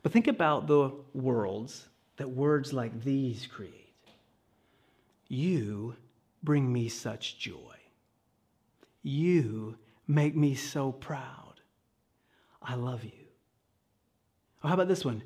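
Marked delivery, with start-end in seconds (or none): 5.3-13.3 tender. Acted. Voicing tender blessing words.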